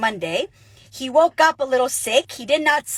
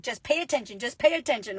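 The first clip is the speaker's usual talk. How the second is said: calm advice; 7 dB quieter, faster than usual. Retold or imitated. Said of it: "And Patty's like".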